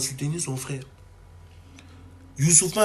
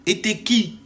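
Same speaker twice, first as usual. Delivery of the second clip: sharp, higher, louder retort; scornful "who are you" jab; indignant challenge; 6 semitones higher, 5 dB louder, slower than usual. Real, not acted. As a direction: throw the question back at her with scorn. Ranting at Ruby.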